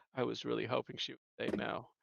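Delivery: low, soft, fast quiet aside. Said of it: "he's just like".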